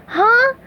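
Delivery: high, loud questioning huh; puzzled grunt. A narrator's reading. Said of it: "SpongeBob grunted".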